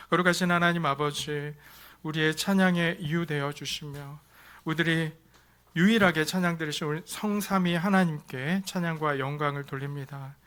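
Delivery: steady, reverent prayer voice. Acted. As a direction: lead the congregation in prayer. Pastor leads closing prayer. (경건한 기도 목소리)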